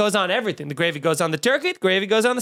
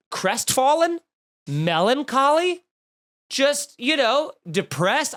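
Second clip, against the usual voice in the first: mock despair; 5 semitones higher, slower than usual. Comic despair.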